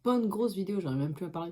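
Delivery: talking with a mouthful; mouth burning from spicy food. Real, not acted. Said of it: "j'ai un peu la bouche en feu, vu que je mange".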